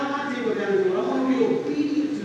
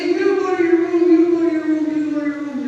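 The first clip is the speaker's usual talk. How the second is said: loud, high stern yell; yelling at the kids; 5 semitones higher, 5 dB louder than usual. Retold or imitated. Pastor yelling at his arguing kids, loud and stern. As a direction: order the kids to their rooms. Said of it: "and I said".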